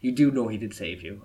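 a light imitation French accent. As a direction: mimic the French woman's accent. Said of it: "in French, in a French accent".

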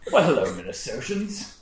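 laughing attempt at a Minnesota accent; a half-hearted Minnesota greeting with a laugh; outsider's botched Minnesota accent; mock Minnesota accent. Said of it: "I was trying to do your accent".

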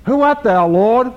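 sudden high, loud cry of alarm; startled cry. Retold or imitated. Preacher voicing Saul struck down, high alarmed cry. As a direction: cry it out, thrown to the ground.

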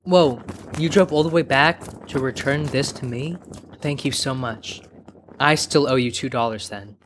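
reply while catching your breath; low, slightly puffed grateful man. Acted. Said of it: "Out of breath, that man looked to Baba and replied".

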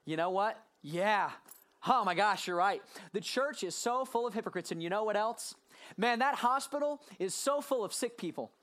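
mock agreement, dripping sarcasm; sarcastic comeback to a critic of church. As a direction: agree with them so they hear the irony. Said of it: "in my most sarcastic tone".

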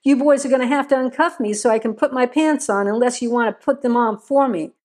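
fast, smug, teasing; snide quip. Acted. Cuffed prisoner mocking the deputies, snide quip. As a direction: toss it off snidely, quickly. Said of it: "Vivian quipped snidely".

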